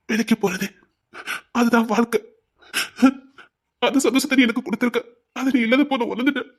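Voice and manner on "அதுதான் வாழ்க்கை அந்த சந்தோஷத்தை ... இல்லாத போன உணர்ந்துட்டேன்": crying. Acted. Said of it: "ஏன் சின்ன பிள்ளை மாதிரி அழுதுட்டு இருக்கீங்க".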